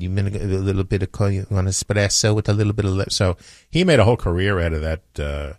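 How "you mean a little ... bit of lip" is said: silly put-on foreign accent; hammed-up, ridiculous foreign accent; Bronson Pinchot's ridiculous accent. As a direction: imitate a comic foreign accent from a movie. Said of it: "He had that ridiculous accent".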